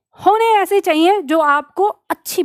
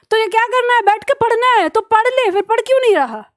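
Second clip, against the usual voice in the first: higher, rising self-scolding; a teacher pushing a lazy student to get up and study; scolding yourself; 4 semitones higher than usual. Shown as a demonstration. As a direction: nag yourself out of bed, pitched up and insistent. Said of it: "अपने आप को कहना".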